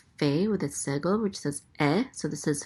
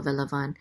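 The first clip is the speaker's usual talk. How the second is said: "velavan" with a light weight on VAN; stress on last syllable; 2 semitones lower than usual. Shown as a demonstration. Teacher repeating the word after naming its accent, stress on VAN of "velavan". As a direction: let "velavan" settle on its final VAN. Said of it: "accent on the last syllable".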